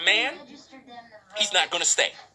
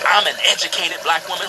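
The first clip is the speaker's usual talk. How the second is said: mock boast; 6 semitones lower, 5 dB louder than usual. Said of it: "have to say".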